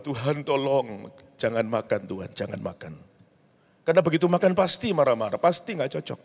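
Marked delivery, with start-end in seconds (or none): 0.0-2.9 soft plea to God, fading lower; retold pleading prayer. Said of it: "Kita berdoa apa?". (doa memohon dengan lirih)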